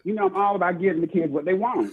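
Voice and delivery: put-on English accent; lightly played English accent. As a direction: stay in the mock English character. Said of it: "this is my character for the night".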